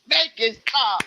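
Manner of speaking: mock pleading. Pleading about a girl's annoying voice.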